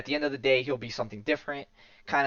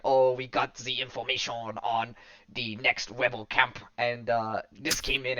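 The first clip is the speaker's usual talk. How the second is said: mock French accent. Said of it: "you guys like my French accent".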